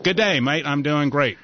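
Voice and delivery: rough imitation of an Australian accent; attempted Australian accent. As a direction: have a go at an Aussie accent. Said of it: "That probably sounds terrible to you".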